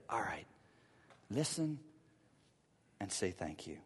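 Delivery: quiet humble thank you; soft humble reply. Shown as a demonstration. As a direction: say it gently and meekly. Humble response modeled softly.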